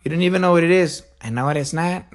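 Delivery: lightly acted grandma and grandson exchange; a hint of a comedian's family bit; George Lopez. Comedian's bit talking to his grandma, lightly imitated. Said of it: "when he talks to his grandma".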